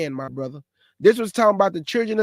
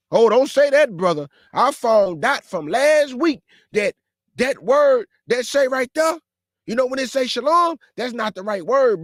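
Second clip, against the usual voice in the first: mocking self-righteous brother; 4 semitones higher than usual. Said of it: "be over righteous over much".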